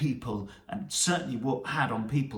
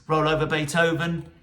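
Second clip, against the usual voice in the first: louder; 3 semitones higher, 6 dB louder than usual. Acted. Quoting the title with gusto.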